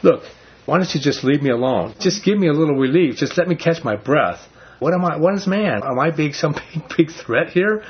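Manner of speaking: high, pleading paraphrase, rising in pitch as it goes; anguished, pitch climbing, with a small laugh; pleading with God. Retold or imitated. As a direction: speak as Job begging to be left alone. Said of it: "he's basically just saying".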